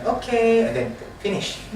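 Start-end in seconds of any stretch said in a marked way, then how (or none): 0.0-0.7 1 curt librarian. Shown as a demonstration. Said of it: "We didn't introduce our names".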